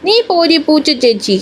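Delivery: put-on high little-girl voice, teasing; a toddler sassing her big sister before running off; high sing-song childish taunt; cheeky child retort. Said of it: "എന്ന് പറഞ്ഞുകൊണ്ട്".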